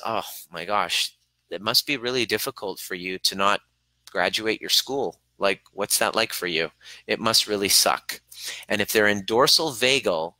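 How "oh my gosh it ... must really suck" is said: empathic. Shown as a demonstration. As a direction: show you truly feel it with them. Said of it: "Versus empathy is".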